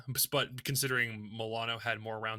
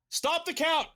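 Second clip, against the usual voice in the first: high, louder mock outrage; meme quote; 14 semitones higher, 4 dB louder, much slower than usual. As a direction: shout the meme with hammed-up indignation. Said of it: "a pretty common meme".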